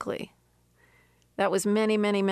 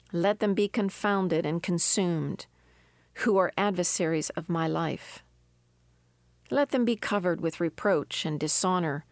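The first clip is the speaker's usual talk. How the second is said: scripture reading; 2 semitones lower than usual. Acted. Preacher reading the psalm to her listeners, measured and prayerful. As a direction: read the verses prayerfully. Reads Psalm seventy-one aloud.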